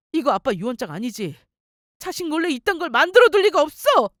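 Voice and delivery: frantic denial. Acted. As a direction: refuse to believe it, shouting. Husband denies father's will frantically. (절박하게 부정하며 따지는 말투)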